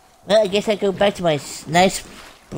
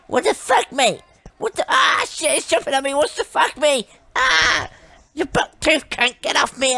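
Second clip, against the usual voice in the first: panicked shout; 4 semitones higher than usual. Real, not acted. Creature jumping on him.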